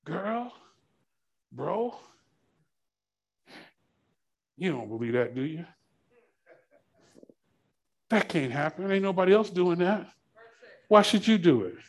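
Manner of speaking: a quiet, coaxing devil's voice; whispering tempter. Acted. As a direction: tempt them softly, hushed. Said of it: "he's whispering".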